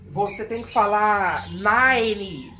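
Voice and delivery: nine drawn out slowly; slow nine demo. Shown as a demonstration. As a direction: draw out nine as one joined sound. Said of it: "falar rápido". (nine falado junto, devagar)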